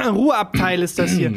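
lightly mocked pointed reminder; understated needling correction; passive-aggressive. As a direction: imitate a passive-aggressive passenger. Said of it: "dieses passiv-aggressive".

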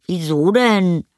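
put-on high-pitched boy's protest; defensive boy. A narrator's reading. Anton deflects mother's worry, high and defensive. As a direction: answer high, as a child with something to hide.

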